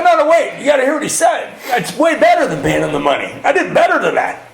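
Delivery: high, frantic self-justification; acted defensive protest. Defending himself to sponsor in retelling.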